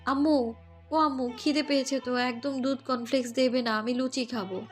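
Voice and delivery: mild call, not truly shouted. A narrator's reading. Sleepy daughter calls her mother for breakfast, mildly calling out. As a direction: call for mum with only a little force. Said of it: "চেঁচিয়ে ডাকলো অনন্যা বেগমকে".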